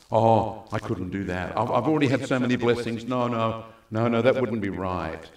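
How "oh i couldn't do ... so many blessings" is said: self-deprecating excuse. Retold or imitated. Mimicked embarrassed believer.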